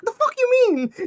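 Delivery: high, loud incredulous outburst; mock outrage. Retelling a film's phone call, mock outrage. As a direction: squeal it in disbelief.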